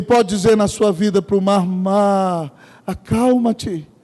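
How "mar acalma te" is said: slow, hushed command to the sea; a hint of a soothing divine voice; lightly voiced calming command. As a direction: still the sea gently.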